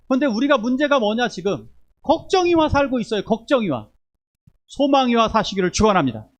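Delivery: high, loud rising exhortation; climactic preaching. Acted. Pastor exhorting the church to live with hope, loud. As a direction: build to a fervent climax.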